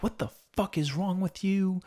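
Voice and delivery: high-pitched mock scolding; harsh father. Harsh father to his screwed-up son, mock outrage. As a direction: play an angry dad berating his son. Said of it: "the other father was a complete dick".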